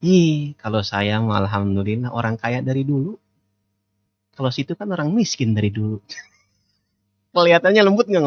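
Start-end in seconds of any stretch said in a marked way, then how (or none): 0.0-6.0 mild, understated brag; quietly condescending, lightly acted; soft-spoken boasting. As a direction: boast lightly without raising your voice. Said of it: "intonasinya pelan tapi ngagul".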